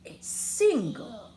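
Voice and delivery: hushed, whispered bravery; very soft voice. Acted. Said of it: "in a muy, muy soft voice".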